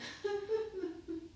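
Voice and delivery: soft high boo-hoo; small whimpering play-weep; mock crying. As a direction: pretend snake sobbing in short bursts. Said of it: "A snake who was crying".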